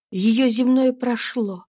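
ordinary delivery

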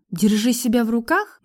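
usual speaking voice

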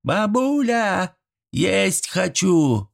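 put-on high, slow drawn-out child's call; a small boy bursting into the yard; boy's hungry call. Little boy calls his granny from the yard, drawn out. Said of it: "с криком".

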